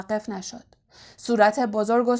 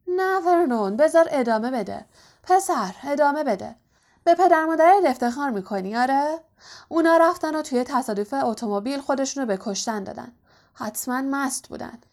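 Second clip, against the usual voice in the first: raised, high goading voice; taunting belligerent aunt; 4 semitones higher than usual. Acted. Aunt stopping uncle to taunt Harry, belligerent. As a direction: goad the boy, pitched high and insistent.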